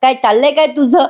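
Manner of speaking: retold scolding, no real shout; mock scolding. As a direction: imitate a man telling off his friend. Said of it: "Arjun त्याला ओरडतो आणि म्हणतो".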